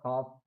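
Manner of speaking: हाफ with no L before the F; silent L. Shown as a demonstration. Teacher reading a spelled example, silent L in हाफ. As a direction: say हाफ, leaving the L unsounded. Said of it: "silent हो गया है".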